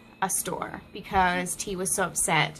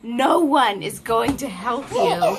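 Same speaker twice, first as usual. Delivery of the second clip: frustrated mom; 5 dB louder, slower than usual. Retold or imitated. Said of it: "and I said".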